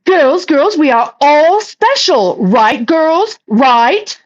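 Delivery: a hint of a preachy mother; mocking the mom.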